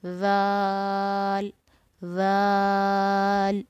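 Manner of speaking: ज़ाल held long, thin and gentle; soft thin letter. Shown as a demonstration. Teacher showing students a long, soft ज़ाल. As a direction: draw ज़ाल out softly and thin. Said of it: "ये तीन हरफी है".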